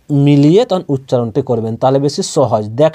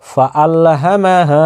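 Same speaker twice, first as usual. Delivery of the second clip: measured Quran recitation, final vowel held; slow demonstration recitation; slower than usual. Shown as a demonstration. Teacher asking learners to watch closely, slow recitation. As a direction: recite it slowly and evenly for learners. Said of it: "ভালো করে লক্ষ্য করবেন".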